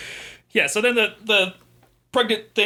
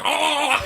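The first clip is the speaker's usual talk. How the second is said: high-pitched drawn-out demon moan; demon groan; 12 semitones higher than usual. Retold or imitated. Demon trying to get out of her belly, mock groan. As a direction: imitate a demon straining to get out. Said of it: "the fucking demon's like".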